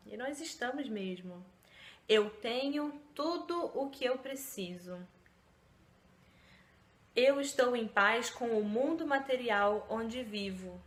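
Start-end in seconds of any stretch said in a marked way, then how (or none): 2.1-10.8 reading affirmations. Shown as a demonstration. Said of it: "vou ler aqui".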